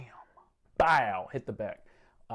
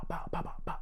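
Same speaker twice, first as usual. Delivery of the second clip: gunfire noises; 8 semitones higher, 4 dB quieter, faster than usual. Retold or imitated. Imitating gunfire.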